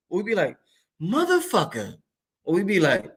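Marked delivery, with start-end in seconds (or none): 1.0-2.0 soft falling curse. Shown as a demonstration. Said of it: "different ways we say this shit".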